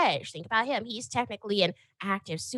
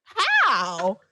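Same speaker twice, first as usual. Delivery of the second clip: higher, stunned questions; higher shocked disbelief; 7 semitones higher, 3 dB louder, slower than usual. Retold or imitated. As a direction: gasp it out in shock at the news. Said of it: "I was like".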